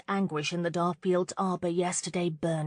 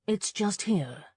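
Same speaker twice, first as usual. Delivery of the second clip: simply; 2 semitones higher, slower than usual. Acted. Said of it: "he said simply".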